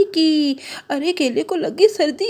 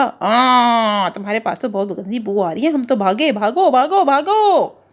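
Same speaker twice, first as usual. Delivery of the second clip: mildly disgusted carrot; 2 semitones lower than usual. Acted. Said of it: "गाजर ने कहा".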